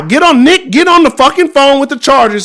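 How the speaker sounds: loud, high, furious shouting; heated shout. Real, not acted. Fan yelling at the team to call the Chargers, furious shout. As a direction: yell it like an outraged fan. Ranting demand to trade QB.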